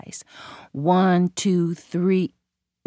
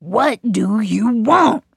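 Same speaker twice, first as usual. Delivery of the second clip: gators in chorus; 2 semitones higher, 4 dB louder, slower than usual. A narrator's reading. All the gators speak together.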